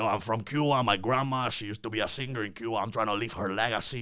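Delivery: a hint of a brash Cuban reggaetonero from Hialeah; Cuban reggaeton character accent. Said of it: "And I talk like this in the interview".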